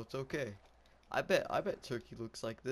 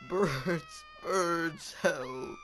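loud, raised cry for help; mock panicked cry; 6 semitones higher, 8 dB louder, much slower than usual. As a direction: call out in hammed-up panic. Mock panic at birds in game.

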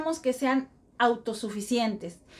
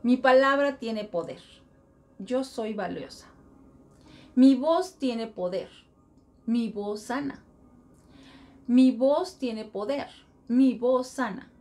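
reciting a mantra. Shown as a demonstration. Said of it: "yo tengo un mantra".

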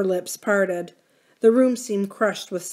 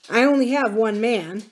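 curt; 3 semitones higher, 4 dB louder than usual. Acted. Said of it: "he said shortly".

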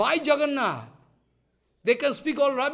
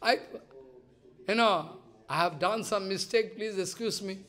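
begging pardon; 5 dB quieter than usual. Retold or imitated. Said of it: "going to beg for pardon".

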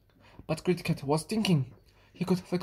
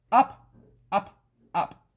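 emphatic up; 4 dB louder, slower than usual. A narrator's reading. Climbing up curtains.

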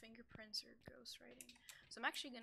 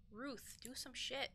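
calling out; 2 semitones higher than usual. Real, not acted. Calling out to the ghost.

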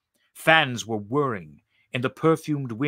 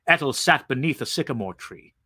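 ordinary delivery, nothing marked

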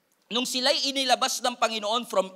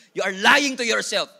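much louder, slow, pressing on lying; loud slow rebuke; 7 dB louder than usual. Real, not acted. Pastor rebuking the congregation for self-deception, loud and slow. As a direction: call them out, loud and deliberate.

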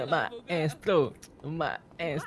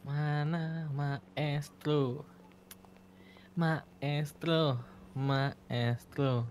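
summoning call; 4 dB quieter, much slower than usual. Pretend. Calling the spirit slowly.

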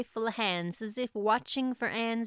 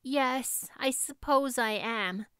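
tranquil; 3 semitones higher than usual. Acted. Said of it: "agreed Anne tranquilly".

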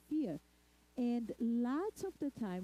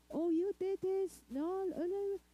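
put-on scolding a child; 9 semitones higher than usual.

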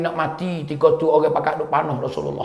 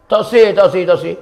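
raised, loud opening on repeated refusals; acted insistent refusal; 2 semitones higher, 4 dB louder than usual. Bilal refuses Abu Bakar's request, acted insistent refusal. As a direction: refuse firmly, repeating it in quick bursts.

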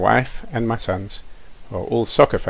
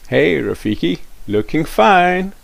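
put-on admiring kid; 7 semitones higher, 3 dB louder than usual. Cool kids compliment Rafiki.

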